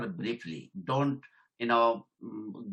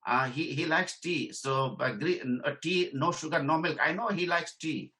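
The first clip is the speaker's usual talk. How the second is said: supervisor voice; 4 semitones higher than usual. Retold or imitated. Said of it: "Then my supervisor says".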